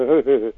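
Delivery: imitated laugh tapering away; little run of chuckles trickling out. Shown as a demonstration. Showing how the laugh track man eased a laugh out, trickling imitated chuckle. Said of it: "He would trickle it off with".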